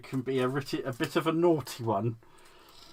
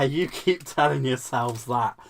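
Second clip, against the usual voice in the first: sarcastic. Acted. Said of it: "I'm being sarcastic".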